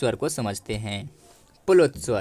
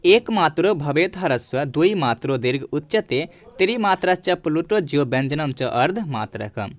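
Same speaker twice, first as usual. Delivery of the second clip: shloka recitation. Shown as a demonstration. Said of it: "आइए हम इसे समझ लेते हैं".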